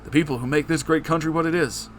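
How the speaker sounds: a bad Obama rallying the people; terrible Obama impression. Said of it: "in my terrible Obama impression".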